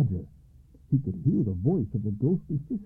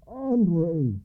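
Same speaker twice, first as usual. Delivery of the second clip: raised, urgent call; crying out; 8 semitones higher, 3 dB louder than usual. A narrator's reading. Alba cries out to Andre, urgent and excited. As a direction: call out breathlessly. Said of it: "he cried".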